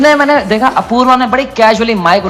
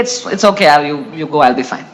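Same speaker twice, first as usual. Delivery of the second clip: mock tearful; 10 semitones lower, 4 dB quieter, much slower than usual. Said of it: "रोते रोते मुझे अपनी insecurity".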